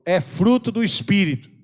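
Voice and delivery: slow, loud proclamation to repeat; loud declaration. Shown as a demonstration. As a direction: declare it like a creed. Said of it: "fala assim, ó". (declaração lenta e alta para repetir)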